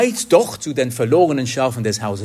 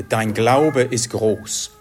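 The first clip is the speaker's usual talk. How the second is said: tender praise; slower than usual. Retold or imitated. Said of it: "er sagt ihr".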